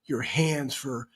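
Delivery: hushed, quiet voice; whispering. Real, not acted. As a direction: keep it down, half whispered. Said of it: "Why are you whispering?".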